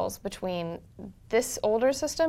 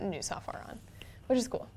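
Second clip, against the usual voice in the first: whispered; 8 dB quieter than usual. Real, not acted. Aside murmured.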